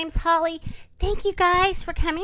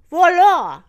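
high, loud ta-da reveal; bright burst of triumph; triumphant exclamation; 3 semitones higher, 11 dB louder than usual. Acted. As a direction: announce the find with a flourish. Narrator triumphantly finds the trees.

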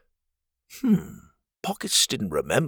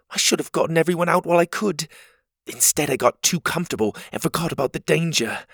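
a lightly raised voice, guilty and sorry; a small character blaming herself, higher; worried Cogleen; 6 semitones higher than usual. Acted.

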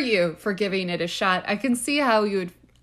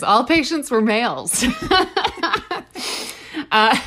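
laughing; 3 semitones higher than usual. Real, not acted. Reads quote, laughing.

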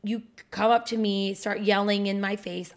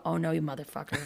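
low, quieter mock outrage; retold triggered anger; 5 semitones lower, 6 dB quieter, faster than usual. Acting out her reaction to partner, low mock fury. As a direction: act out being triggered, pitched down. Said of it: "to trigger me and go".

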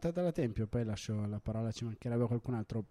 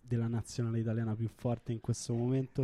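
put-on Roman accent, Inter fan rant; annoyed Roman accent. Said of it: "un commento imitando l'accento romano".

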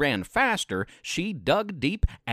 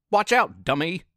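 a lightly raised bully's shout; mock shout. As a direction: call it out with a bit more push. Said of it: "he shouted".

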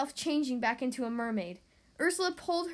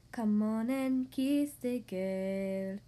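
crab voice; 4 semitones lower, much slower than usual. Acted. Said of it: "said the crab".

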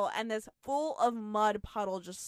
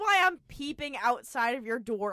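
trying not to laugh; 4 semitones higher, 4 dB louder than usual. Real, not acted. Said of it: "I can't even finish it".

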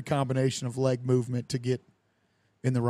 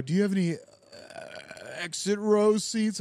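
stalling for time; 6 semitones higher than usual. Acted. Passenger fumbling for ID at the airline counter, stalling. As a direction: stretch the question out while fumbling for something. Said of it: "I'm trying to get my I D out".

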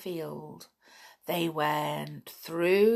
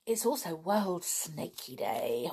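hushed snaky whisper; 2 semitones lower, 5 dB quieter than usual. Pretend. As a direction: whisper it like a secret. Spooky whisper for snakes.

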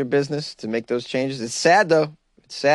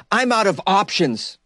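whiny mock quote; 7 semitones higher, slower than usual. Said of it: "one more quote from Ollie".

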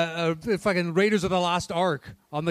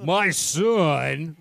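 drawn-out fake dad on tape; mock tape-recorder father; slowed-recorder fake father; 2 semitones lower than usual. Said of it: "this guy sounds on the up and up".

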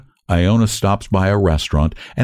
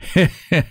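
short, high acted laugh; brief put-on chuckle; 9 semitones higher than usual. A narrator's reading. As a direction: laugh along meekly as the cabman. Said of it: "grins Iona".

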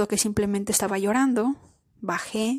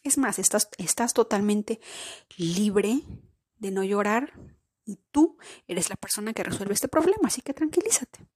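put-on comforting inner child. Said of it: "abrazar ese niño interior de decirle".

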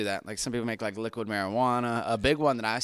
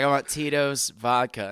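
laughing customer; 3 semitones higher, 4 dB louder, slower than usual. Retold or imitated. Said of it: "He's like".

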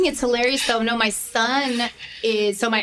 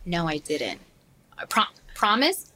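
uneasy; 3 semitones lower, 3 dB quieter, slower than usual. Retold or imitated. Son denying taking candy.

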